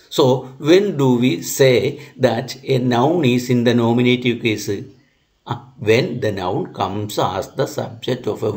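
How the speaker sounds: slow, careful dictation of a definition. Acted. Teacher dictating the nominative case rule, slow and measured. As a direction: give it word by word for note-taking.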